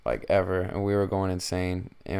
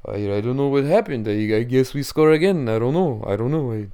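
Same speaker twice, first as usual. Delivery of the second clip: mock Russian accent, playing clueless; Vladimir Putin; 3 semitones higher, 5 dB louder than usual. Russian leader excusing a goal to Saudi prince, mock Russian accent. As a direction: put on a hammed-up Russian accent, feigning ignorance. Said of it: "Vladimir would be looking over at, like, bin Salman".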